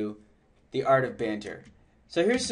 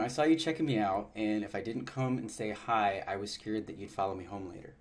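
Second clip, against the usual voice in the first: mock genuine concern; 4 semitones lower, 7 dB quieter than usual. Shown as a demonstration. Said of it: "with genuine concern".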